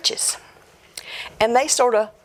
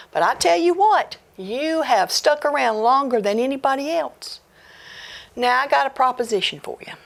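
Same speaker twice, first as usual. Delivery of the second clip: ghost's voice; 4 semitones higher than usual. Acted. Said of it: "the ghost said".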